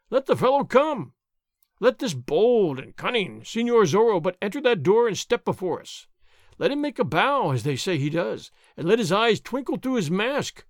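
boastful sergeant. Acted. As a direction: puff up and crow like a braggart. Gonzales boasts about catching Zorro.

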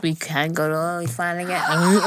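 slightly slurred tipsy speech; words blurring a little from drink; tipsy slurring. Real, not acted. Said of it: "I'm already slurring my words".

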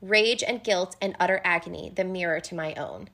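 reading the quote. Acted. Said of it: "as Feyre has this line".

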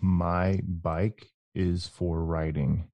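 slow, word-by-word "My bike is for riding"; slow careful reading. Shown as a demonstration. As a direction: read it out slowly and precisely. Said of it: "I want you to say the sentence".

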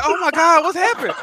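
high, alarmed gasp of a question; imitating a scared wife on the phone; mock panicked wife.

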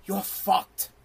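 low, soft and matter-of-fact; blunt line delivered under the breath; understated verdict. Acted. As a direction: drop the voice for a quiet blunt verdict. Blunt verdict, said twice differently.

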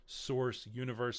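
hoarse, failing voice; voice giving out. Real, not acted. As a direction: voice cracking and fading. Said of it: "Sorry, I'm losing my voice".

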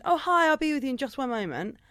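polite customer-service singsong; retold friendly greeting. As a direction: greet a customer cheerily, lightly acted.

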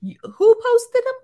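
high, loud, incredulous retort; mock scolding. God asking who really posted them, high loud scolding. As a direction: call out the ego.

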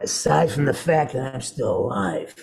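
lightly voiced old-man character; understated, deliberate old veteran; Woods. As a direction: deliver it as the aged survivor, slowing to finish. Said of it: "I go".

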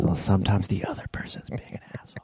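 soft whispered jab; whispered aside. Real, not acted. Muttered joke aside.

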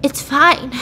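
put-on halting, stammered crying boy; lightly acted choked-up brush-off; tearful, imitated. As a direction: falter through it as if holding back tears. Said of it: "and he's crying, obviously".

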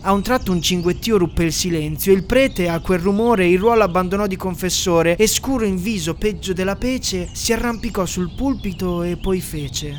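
a lightly solemn storyteller reading verse; a touch of mock-grand narrator; solemn poem narration. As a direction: recite it like a grand old poem over music. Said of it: "la voce soave ed elegante del narratore".

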